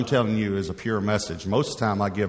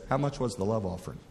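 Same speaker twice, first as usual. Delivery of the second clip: low blunt question; 5 dB quieter than usual. Retold or imitated. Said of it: "Just like that".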